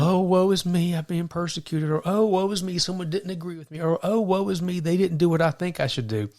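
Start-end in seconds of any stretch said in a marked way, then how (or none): 0.0-1.9 higher, hammed-up whining lament; mock self-pity. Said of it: "we're like". 2.0-3.8 higher, hammed-up whining lament; mock self-pity. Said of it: "we're like". 4.0-6.3 higher, hammed-up whining lament; mock self-pity. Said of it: "we're like".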